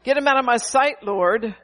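preacher mimicking a vengeful believer; mock vengeful prayer. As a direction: ham up a spiteful prayer. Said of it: "Instead of".

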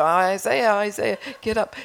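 insistent mock wake-up call; mild retold yell. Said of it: "I kept yelling".

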